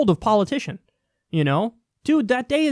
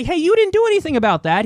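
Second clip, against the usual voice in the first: mock complaint; 7 semitones higher, 4 dB louder than usual. Acted complaint to the politician.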